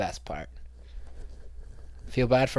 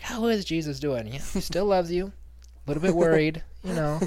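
much higher, breezy pious; higher mock-sweet church talk; smug mock reply; 6 semitones higher than usual. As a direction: rub it in cheerfully.

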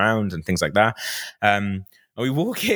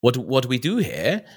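Queen's English; 2 semitones higher than usual. Retold or imitated. Replying to the cameraman, a touch of Queen's English. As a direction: own question in Queen's English. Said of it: "go all Queen's English like that".

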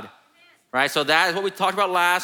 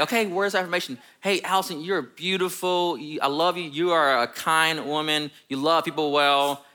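dutiful affirmations; 2 semitones higher than usual. Retold or imitated. Husband offering his wife words of affirmation, dutifully sweet.

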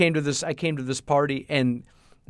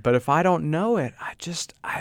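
hushed; 2 semitones higher than usual. Real, not acted. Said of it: "I'm giving you some bad flashbacks".

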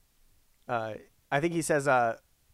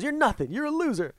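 imitating Karate Kid bully; 10 semitones higher than usual. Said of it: "he goes".

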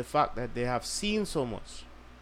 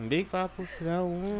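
high put-on voice; 6 semitones higher than usual.

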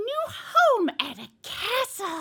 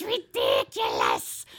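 very deep voice; 3 dB louder, slower than usual. Acted. Mock deep aside on tiny dice.

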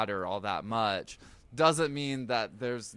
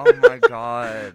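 high, loud, drawn-out oh my God; stretched, shrieking disbelief; 14 dB louder, slower than usual. Real, not acted. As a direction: cry it out in shocked delight. Laughing disbelief at story.

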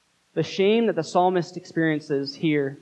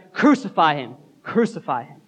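retold crowd shout. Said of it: "they shouted".

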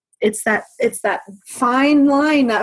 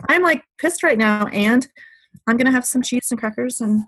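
mock pissed-off guest; 4 semitones higher than usual. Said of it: "And be like".

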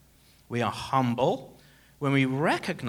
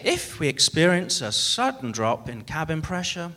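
safety announcement; 3 semitones higher than usual. Retold or imitated. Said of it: "But they say".

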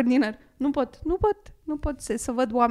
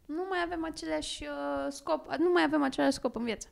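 acted breakup; 5 dB quieter than usual. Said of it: "Man, teatru radiofonic".

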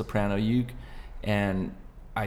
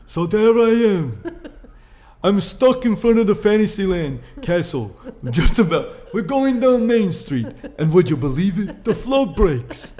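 a hammed-up old Jewish man telling a Disney story; old man Jewish accent; 10 semitones higher, 8 dB louder than usual. Guest imagines himself at eighty-two, exaggerated old Jewish accent. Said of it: "I'm not doing a very good accent".

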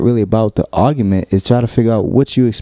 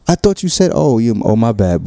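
mock flustered surprise; 3 semitones higher than usual. Mimicking partner's flustered apology.

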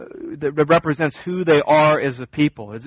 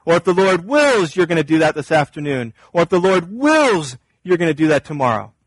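James correcting; 3 semitones higher than usual. Acted. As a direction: interrupt to correct, leaning on each "if the Lord wills". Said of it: "He'd stop you and say".

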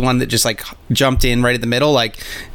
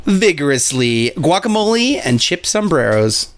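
ad announcer voice; 5 semitones higher than usual. Acted. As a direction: sell it like a cheesy ad. Fake ad read.

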